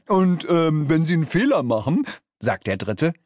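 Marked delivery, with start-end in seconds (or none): 0.1-2.1 higher, put-on creature voice; hesitant, pitched-up minion; third demon underling. A narrator's reading. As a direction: chime in with a halting start, then rush.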